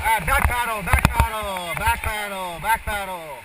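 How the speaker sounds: loud, high calls over the river noise; shouting over rushing water. Real, not acted. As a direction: bark the paddle commands over the rapids. Guide shouting paddle commands in rapids.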